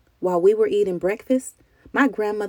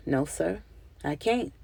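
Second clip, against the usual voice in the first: defeated whisper; 6 dB quieter than usual. A narrator's reading. Granddaddy humiliated before deputy.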